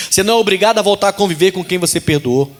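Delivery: fast, running statement of the rule; quick first take. Shown as a demonstration. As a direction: rush through "Você não é obrigado" as a quick aside.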